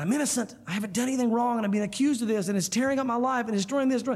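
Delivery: mildly distressed, run-on complaint; a touch of rising desperation, retold; imitated overwhelmed caller. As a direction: lightly act out someone pleading innocence. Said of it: "and they're saying".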